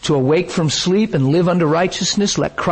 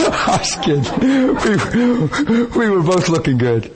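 laughing; 4 semitones higher than usual. Real, not acted. Still laughing after joke.

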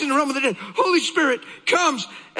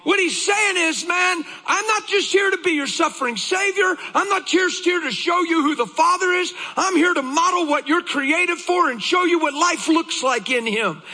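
high-pitched, urgent sermon delivery; driving pulpit voice; fervent preaching; 4 semitones higher than usual. Real, not acted. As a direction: preach it with insistence.

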